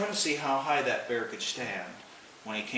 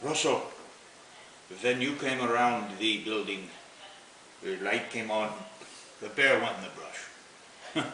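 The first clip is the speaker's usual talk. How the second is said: lightly imitating a heavy German accent in broken English; a hint of German accent, slowing on the last words; retelling a German neighbour's warning in her accent; Wilma's German accent. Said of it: "heavy German accent".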